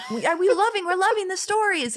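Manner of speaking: mock French accent. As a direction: play the gushing French boss in a put-on French accent. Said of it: "in a French accent that I can't do".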